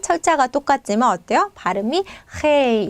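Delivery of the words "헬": 헬 with the Spanish h-like g at the start; Spanish h sound. Shown as a demonstration. Teacher giving Spanish word for gel, careful 헬. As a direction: say 헬 slowly and clearly, h first. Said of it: "이렇게 발음이 되는 겁니다".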